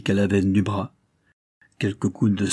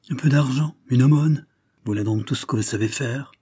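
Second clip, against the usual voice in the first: higher and bitter, full of disdain; harsh, scornful; 3 semitones higher than usual. Acted. Lady scorning the duke's charity, harsh and disdainful. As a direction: spit out the contempt, hard and harsh. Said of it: "avec un accent âpre et dur, où l'on sentait le dédain".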